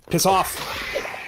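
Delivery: whispered shoo. Real, not acted. Shooing a monster.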